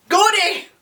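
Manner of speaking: high, bright shout of goody; squealed catchphrase; excited exclamation. Real, not acted. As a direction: call it out like a cheer.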